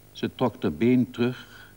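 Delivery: ordinary delivery, nothing marked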